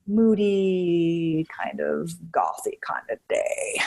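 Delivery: drawn-out, moody delivery; mock gothy gloom. Host forecasting a moody kind of day, mock gothy gloom. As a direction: stretch it slowly with playful gloom.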